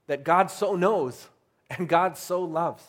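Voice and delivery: each "so" slow and drawn out; stress on SO. Shown as a demonstration. Preacher answering doubt that God loves us, emphatic slow "so". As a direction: linger on both "so" words. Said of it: "There's an emphasis in this verse".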